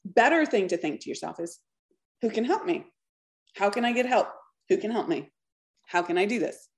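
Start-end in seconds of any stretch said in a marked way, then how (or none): 2.2-6.7 calm, matter-of-fact self-questioning; measured and practical, slightly soft; neutral, proactive. Acted. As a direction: ask it evenly, ready to act. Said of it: "Very neutral, very, like, proactive".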